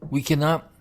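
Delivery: words right after a sip of tea; while sipping a drink. Real, not acted. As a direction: mouth still wet from a sip. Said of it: "drinking some mint tea at the moment".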